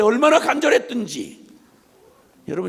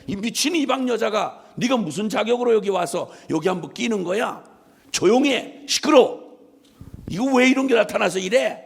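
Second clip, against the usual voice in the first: scolding crowd. Retold or imitated. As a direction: play the irritated crowd hushing her. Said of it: "사람들이 막 야단을 치는 거예요".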